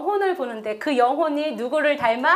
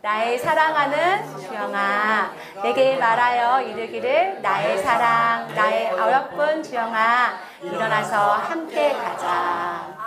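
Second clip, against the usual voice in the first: tender slow recitation of God calling her; gentle loving scripture voice, drawn out; slow tender scripture reading; 2 semitones lower, slower than usual. Shown as a demonstration. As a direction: read it slowly and lovingly, with her own name. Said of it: "자, 읽어봅시다".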